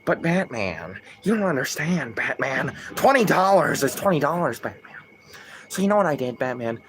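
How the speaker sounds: lightly voiced Joker, pleading then sly. Streamer voicing Joker explaining himself to Batman, sly Joker voice. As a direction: wheedle like a grimy clown, trailing off on Batman. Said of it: "in the Joker voice".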